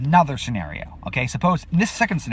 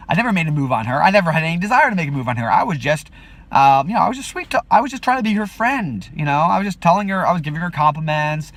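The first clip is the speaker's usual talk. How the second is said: defensive excuses; 3 semitones higher, 3 dB louder than usual. Retold or imitated. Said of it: "I could have plausible deniability, say".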